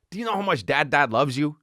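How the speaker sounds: put-on lifted, cooing question to a little kid; sing-song to a toddler. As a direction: coo it up like talking to a two-year-old. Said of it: "often say it like".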